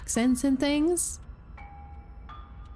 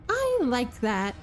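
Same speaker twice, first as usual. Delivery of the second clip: slow sweet voice, hint of crazy; lightly imitating a creepy princess; customer service crazy. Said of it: "A customer service voice ... twinge of crazy".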